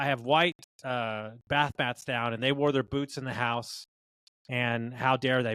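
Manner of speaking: slow, deliberate mock indignation; retold indignant complaint. Business owner retells a customer's complaint about muddy boots, mock indignant. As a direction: imitate an offended customer, drawing the words out.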